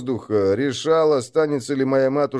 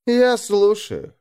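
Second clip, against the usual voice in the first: устало; 6 semitones higher, slower than usual. A narrator's reading. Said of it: "устало заметил он".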